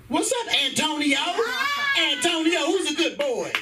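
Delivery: high singsong to a dog; high, playful puppy greeting; dog-talk voice. Retold or imitated. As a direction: pitch it up to excite a pet.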